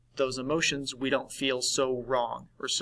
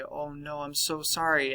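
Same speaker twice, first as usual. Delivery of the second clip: sympathetic friend; 4 dB quieter than usual. Acted. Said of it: "And they say".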